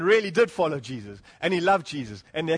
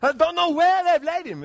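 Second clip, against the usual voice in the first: put-on very high, loud, overdone Jewish accent; mock Jewish mother crying out, slipping towards Greek; Jewish woman voice; 10 semitones higher, 7 dB louder than usual. Preacher playing a Jewish woman missing Jesus' body, exaggerated Jewish accent. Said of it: "In my best Jewish voice".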